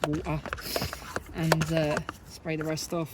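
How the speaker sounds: "water" in Essex accent, glottal t, "wo'er". Shown as a demonstration. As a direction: say "water" like an Essex local, t dropped. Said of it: "I'm just gonna go with my Essex accent".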